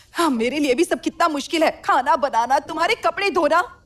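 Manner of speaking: loud, harsh angry scolding. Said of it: "बंद करो झगड़ा".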